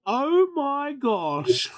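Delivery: drawn-out, slow delighted oh my gosh; surprised exclaim. Real, not acted. GM reacts to a natural twenty, slow and delighted. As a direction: gasp it out slowly in delight.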